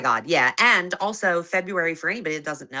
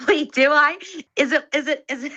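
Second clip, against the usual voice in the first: squeaky high-pitched voice; helium voice; 7 semitones higher, 4 dB louder than usual. Real, not acted. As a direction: sound like you've inhaled helium. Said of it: "Why does she sound like she's on helium?".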